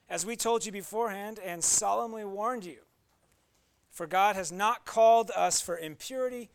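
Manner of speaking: measured reading of the passage; scripture reading. Acted. Pastor reading scripture to the congregation, measured and clear. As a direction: read Paul's letter aloud to the church.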